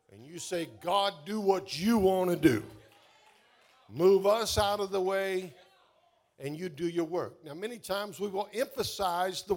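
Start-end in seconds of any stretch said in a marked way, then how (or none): 0.7-7.4 loud, forceful cry to God; emphatic declaration. Acted. Preacher voices a surrender to God, loud and emphatic. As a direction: declare it loudly, handing over control.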